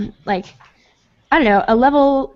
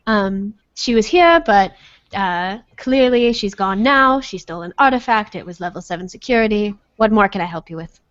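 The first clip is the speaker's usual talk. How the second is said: put-on a formal professor in a half-managed British accent. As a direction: weird would-be British accent. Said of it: "awesome British accent".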